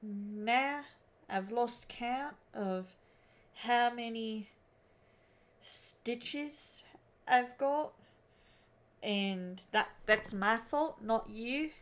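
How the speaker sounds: put-on halting amateur Aussie accent; Australian accent attempt. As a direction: work through it in a tentative Australian accent. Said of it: "five minutes of attempting the Australian accent".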